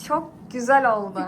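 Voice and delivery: "Çok güzel oldu" said out loud. Real, not acted. Same praise repeated louder.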